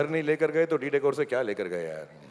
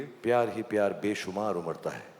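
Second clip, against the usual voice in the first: soft, lower lover's line; romantic line; 5 semitones lower, 5 dB quieter than usual. Shown as a demonstration. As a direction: murmur it to your wife. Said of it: "मेरे साथ बोलो".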